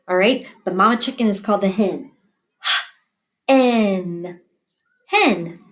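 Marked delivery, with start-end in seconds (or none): 3.5-4.4 H-N split into its sounds; sounded out. Shown as a demonstration. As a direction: segment hen piece by piece. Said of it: "first sound green".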